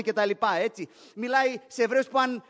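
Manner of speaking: ordinary talk, nothing marked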